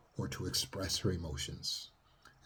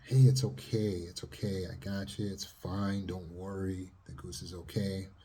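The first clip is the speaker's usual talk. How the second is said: put-on calm the child tenderly; soothing mother. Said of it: "the mother shows the daughter".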